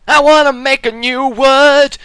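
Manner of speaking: high, loud outburst; loud, high-pitched mock protest; mock tantrum. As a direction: blurt it like an indignant demand. Mock tantrum over invented word.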